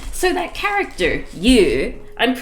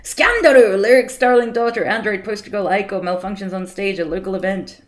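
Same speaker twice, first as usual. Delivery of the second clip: shouted headline; 5 dB louder than usual. Shown as a demonstration. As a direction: bellow it like a scandal headline.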